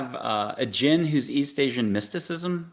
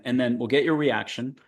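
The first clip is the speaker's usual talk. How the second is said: ordinary talk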